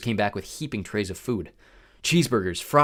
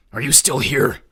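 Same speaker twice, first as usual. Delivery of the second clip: dismissive biker; 3 semitones higher, 7 dB louder than usual. A narrator's reading.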